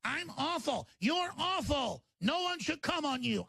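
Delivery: squeaky mock of a rival; high put-on voice ridiculing the rival; mocking whiny voice. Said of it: "Jones mocks Shapiro".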